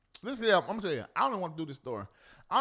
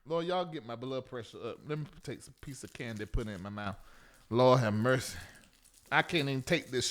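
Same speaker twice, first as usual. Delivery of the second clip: weary church mother; 10 semitones lower than usual. Acted. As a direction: sigh like a worn-out elder.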